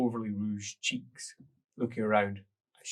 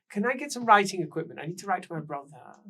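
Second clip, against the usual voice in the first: high demanding lady; 8 semitones higher, 7 dB louder than usual. Acted. Woman demanding writing things.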